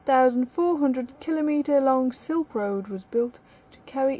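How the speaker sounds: measured documentary-style read; presenter reading, emphatic at the start; reading aloud. Acted. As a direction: read the fact out like a narrator. Reads album fact aloud.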